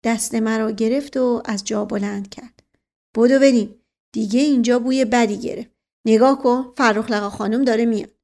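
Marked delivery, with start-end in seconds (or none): 3.2-8.1 loud, urgent call to run; urgent hurry. Acted. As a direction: hurry the boy away before she arrives. Hurrying away from Farokh Lagha.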